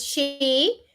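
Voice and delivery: she is my sister spelled out slowly; slow model sentence. Shown as a demonstration. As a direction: dictate it slowly for the class. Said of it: "Ella es mi hermana, entonces". (dictado lento para la clase)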